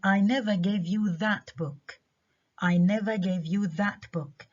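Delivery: that stressed, slow read; stress on that book. Shown as a demonstration. Teacher stressing that book, meaning another book. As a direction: lean on that and book. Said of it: "أنا ما أعطيتكاش هذا الكتاب".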